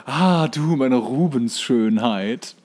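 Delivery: very slow, drawn-out mock swoon; swooning admirer. Thaddeus wooing Patricia in a slow mock-swooning voice. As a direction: savour each word like a lovestruck suitor. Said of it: "guckt ihn und sagt".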